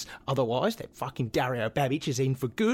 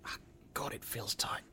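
straining while stretching; 10 dB quieter than usual. Acted. Stretching a tight muscle.

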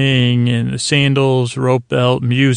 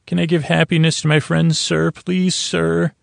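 higher, sing-song mock plea to the captain; mocking pleading subordinate; 5 semitones higher than usual. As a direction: imitate a fawning officer begging sir, higher. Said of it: "it's so sweet asking your captain".

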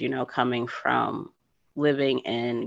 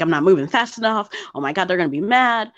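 fast, louder anxious rush; retelling her own panic, words tumbling out; panicky inner voice; 4 semitones higher, 4 dB louder, faster than usual. Retold or imitated. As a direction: race through the worry as panic builds. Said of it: "So I had a panic attack".

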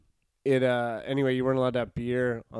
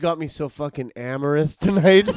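mock smooth talker; 6 dB louder than usual. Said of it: "the dumbest shit I've ever heard".

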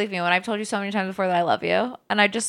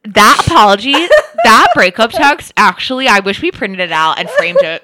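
loud, laughing glee; real loud giddy delight; laughing excitement; 6 dB louder, slower than usual. Real, not acted. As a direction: gush loudly through laughter. Excited laughing about breakup text.

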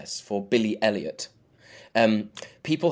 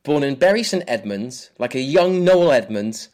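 limerick recital. Pretend. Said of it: "here is your limerick".

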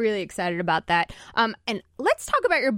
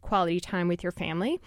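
infomercial voice. Acted. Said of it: "I sound a little like an infomercial now".

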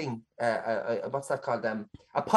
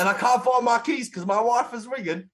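put-on broad London accent; 4 semitones higher than usual. Shown as a demonstration. Co-host carrying on the London bit, put-on London accent. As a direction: keep up a rough London accent. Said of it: "Give us a London accent".

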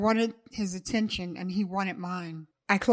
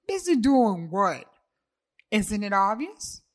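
incredulous; 3 semitones higher, 5 dB louder than usual. Acted. Incredulous retort.

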